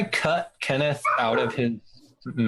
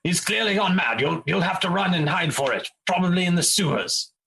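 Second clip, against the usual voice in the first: a little high, mock serious; mock serious warning; 6 semitones higher than usual. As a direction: sell the lie with concern. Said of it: "and be like".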